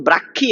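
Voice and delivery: "ব্রাক্ষী" with a kkh in place of mh; mispronunciation to avoid. Shown as a demonstration. Teacher warns students never to say this, mispronounced. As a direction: show the wrong "ব্রাক্ষী", brak-khi. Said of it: "এরকম বলবেন না".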